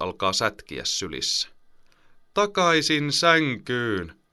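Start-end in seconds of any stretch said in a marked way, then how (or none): 2.3-4.2 put-on high, very slow, loud child's yell; shouting. Boy kicking in his mother's arms shouts at her. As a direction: wail it out like a kicking kid. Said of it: "hän huutaa".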